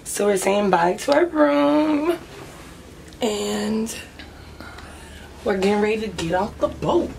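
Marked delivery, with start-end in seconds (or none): 0.0-2.2 morning-after hoarse voice; hoarse with a worn-out voice. Real, not acted. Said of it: "I don't really have a voice".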